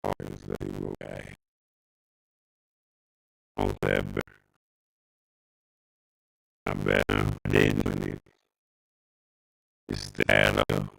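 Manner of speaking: garbled robotic audio; like a robot song on a bad line. Real, not acted. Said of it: "sounds like a robot song".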